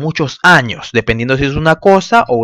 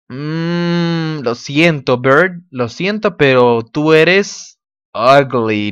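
mock apology; much slower than usual. Teasing the ugly bird.

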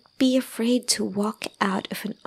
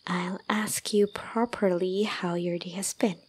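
whisper. Acted. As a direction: soothe them with a hushed promise. Calming crying partner.

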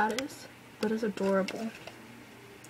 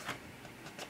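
slow breathy gasp of awe; awed whisper; 16 dB quieter than usual. Real, not acted. Fan stunned by her favourite member's photo. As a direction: let it fall out slowly, stunned.

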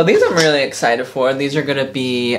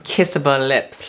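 lady voice; slower than usual. Acted. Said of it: "I lost my lady voice".

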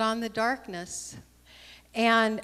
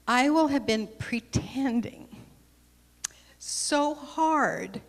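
whisper; 3 semitones higher, slower than usual. Acted. Friendly soul confides.

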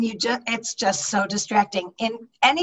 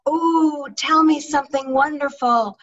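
eager listener; 3 semitones higher than usual. Pretend. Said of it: "the question in their mind isn't".

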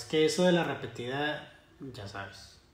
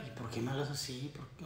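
hushed, low, much softer reply; demonstrated mild reply; 4 semitones lower, 12 dB quieter, faster than usual. Acted. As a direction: answer meekly under your breath. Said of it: "No, yo nada más contesto en".

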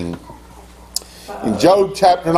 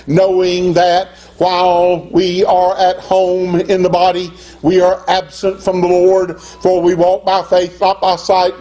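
scripture reading; 3 semitones higher than usual. Acted. Reads scripture at raised pitch.

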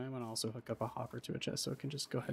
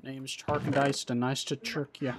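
a hint of a put-on tough guy, slow; lightly voiced mock greeting; goofy character intro; 5 dB louder than usual. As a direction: ham up a silly introduction. Goofy made-up name introduction.

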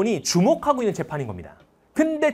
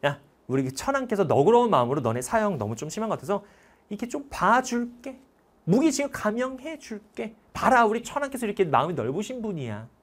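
condescending official; 3 semitones higher than usual. Retold or imitated. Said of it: "이렇게 얘기하죠".

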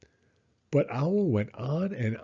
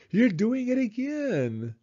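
sadly; 12 semitones higher than usual. Acted. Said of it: "said Pooh sadly".

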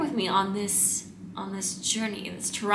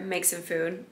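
usual speaking voice

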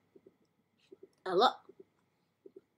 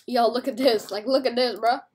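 loud, lively "yo" voice; excited show-off; 7 dB louder than usual. Retold or imitated. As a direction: show it off to a buddy, loudly. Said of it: "It's like".

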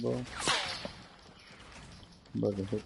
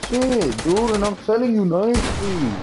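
calm turning angry; 8 semitones higher than usual. Real, not acted. Sibling argument escalating.

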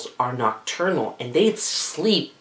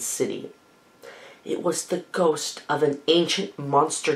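hushed spooky storytelling. A narrator's reading. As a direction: draw them in with a hush. Spooky narration.

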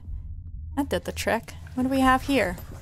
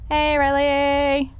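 calling out; 3 semitones higher, 3 dB louder, much slower than usual. Real, not acted. Calling out to a friend on entering.

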